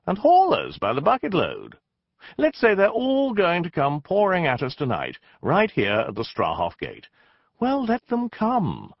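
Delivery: rising defiance. Acted. Rousing speech to sentries.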